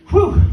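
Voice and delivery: loud high exhale; breathless whew. Real, not acted. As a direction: blow out air from the heat. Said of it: "out of breath".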